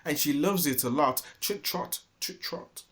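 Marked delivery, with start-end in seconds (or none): 1.4-2.8 unvoiced rhythmic trot trot; whispered trot. A narrator's reading. Narrator ends the tale, soft whispered trotting.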